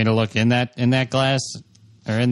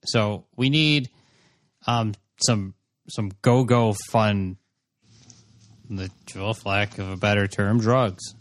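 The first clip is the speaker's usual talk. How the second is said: halting, unsure request with long pauses; hesitant first-timer asking for something illicit; awkward inexperienced buyer. Acted. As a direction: feel around for the word before admitting it. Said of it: "You sound like somebody who's never had drugs asking for drugs".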